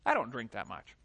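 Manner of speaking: low, mumbled excuses of an addict; a lightly voiced addict in denial; mock addict denial. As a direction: play a sheepish addict brushing it off. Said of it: "The drug addict".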